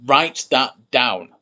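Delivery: slow, deliberate dictation. Shown as a demonstration. Teacher dictating a key sentence, slow and deliberate. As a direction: spell it out slowly for the class. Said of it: "a very important sentence".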